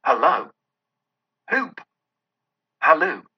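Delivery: hollering after a runner, the "Hoop!" jumping high; whooping and hallooing in delight; excited calling out. A narrator's reading. Scrooge calls after Friday running for the creek, an excited holler.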